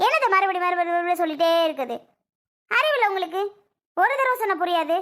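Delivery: irritated, quick scolding; exasperated anger. Acted. Wife scolds husband for asking repeatedly, exasperated. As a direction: snap at him for not getting it. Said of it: "கோவப்படக்கூடாதுடி".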